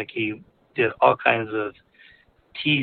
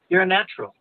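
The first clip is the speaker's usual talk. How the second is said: amused, retold laughing; 8 semitones higher, faster than usual. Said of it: "he starts laughing".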